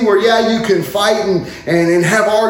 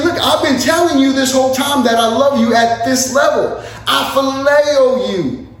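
frustrated Peter; 4 semitones higher than usual. Retold or imitated. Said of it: "that's where Peter gets frustrated".

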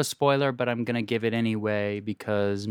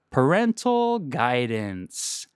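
segment title announcement; much slower than usual. Acted.

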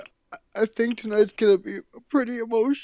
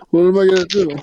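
hammed-up despair breaking into laughter, faster; mock despair; much faster than usual. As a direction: keep asking faster until you crack up.

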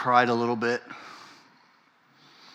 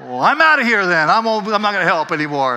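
mock offended; 6 semitones higher, 8 dB louder than usual. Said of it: "It's like".

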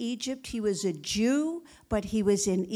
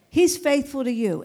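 louder repeat; 6 dB louder than usual. Shown as a demonstration. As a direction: say He's faithful to you again, louder and firmer. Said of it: "repeated with more force".

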